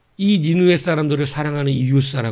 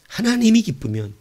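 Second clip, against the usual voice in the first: higher repeat; 8 semitones higher than usual. Acted. Preacher repeats the key phrase to the congregation, pitched up. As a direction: repeat it much higher, ringing.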